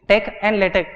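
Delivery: Tech and LaTeX each ending in a hard k; correct pronunciation. Shown as a demonstration. Teacher modelling the names for learners, Tech and LaTeX ending in k. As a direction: say LaTeX as "lay-tek", Tech as "tek". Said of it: "Pronunciation is LaTeX".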